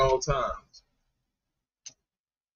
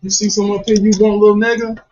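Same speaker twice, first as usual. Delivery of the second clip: calling out to the dog; 3 semitones higher, 6 dB louder than usual. Real, not acted. Talking to staring dog.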